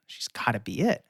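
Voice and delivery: breathless conspiratorial whisper. Real, not acted. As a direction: let us in on a secret. Secret hunch about the producer.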